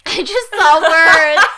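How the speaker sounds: laughing. Real, not acted. Teasing repeat with laughter.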